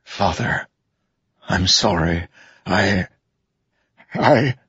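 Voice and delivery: halting, choked-up last words; faltering apology. A narrator's reading. Defeated son apologizes before death.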